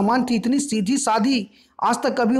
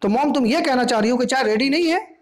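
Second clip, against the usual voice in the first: raised, indignant question; angry shout; 5 semitones higher than usual. Acted. Daughter shouting at mom about missing tea. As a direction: let the anger rise. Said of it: "Doris गुस्सा के चिल्ला के बोलती है".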